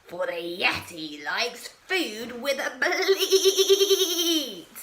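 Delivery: slow, bleating monster voice; goat bleat. Acted.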